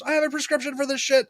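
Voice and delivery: high, frantic overacted protest; hammed-up cornered dealer; mock manic protest. Quoting Ben Schwartz's character.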